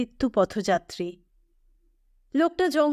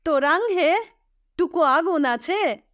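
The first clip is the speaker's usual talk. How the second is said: lightly voiced Manbhum villager, a touch higher; a hint of a tired Manbhum woodcutter asking for a light; Manbhum Bengali dialect; 5 semitones higher than usual. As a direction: rural Manbhum speech, only lightly acted. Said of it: "মানভূমি বাংলায় বললে".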